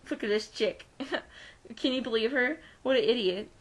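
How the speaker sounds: soft mocking snicker under the breath; quiet jeering giggle. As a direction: laugh behind her back, hushed. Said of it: "snickering and laughing behind my back".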